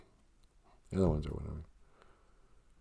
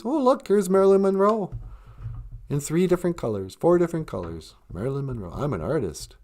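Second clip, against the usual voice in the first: mock pretentious artist; 8 semitones higher than usual. Mocking a pretentious pop artist.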